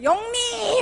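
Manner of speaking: mock curling-style yell, high and loud; imitated shout. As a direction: yell the name, stretched and high. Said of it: "이렇게 외치던데".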